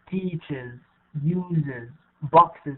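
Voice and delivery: "Teaches, uses, boxes" repeated as examples of the "iz" ending. Shown as a demonstration. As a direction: close "Teaches", "uses" and "boxes" on an extra "iz" syllable. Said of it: "is pronounced E Z".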